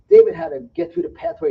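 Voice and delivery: rising to a loud high preacher's cry; fired-up sermon climax; excited. Acted. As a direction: build the story up to a shout. Preacher acting out David's story.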